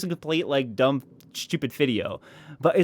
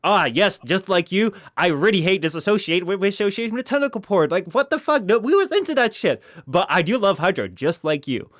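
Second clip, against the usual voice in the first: hammed-up youtuber; 4 semitones higher than usual. Host answering the viewer's choice, hammed-up and higher. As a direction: ham up the video answer. Imagined video branch answer.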